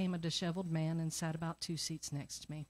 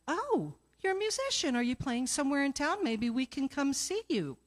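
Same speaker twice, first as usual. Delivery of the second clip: much higher, bright eager gush; gushing friend; 7 semitones higher, 4 dB louder than usual. Retold or imitated. Friend eagerly asks the musician about his show, excited. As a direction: play the excited friend coming to the rescue.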